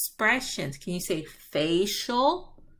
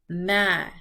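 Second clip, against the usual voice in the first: mad; 4 dB louder than usual. Shown as a demonstration. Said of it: "How do I feel?".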